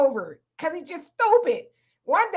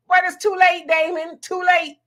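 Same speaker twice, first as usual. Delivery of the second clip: laughing tease; 4 semitones higher, 3 dB louder than usual. Real, not acted. Laughing teasing cohost.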